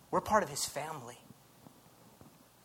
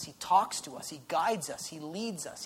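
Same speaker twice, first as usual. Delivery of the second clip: normal talking voice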